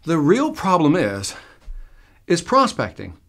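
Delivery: the real problem is, slowed and weighted before the payoff; slow reveal from the stage; slow emphatic reveal. Shown as a demonstration. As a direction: build to prospecting with a pause. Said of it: "I'll hold my finger up like this".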